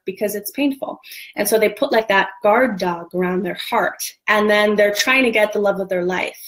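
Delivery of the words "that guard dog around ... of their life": usual speaking voice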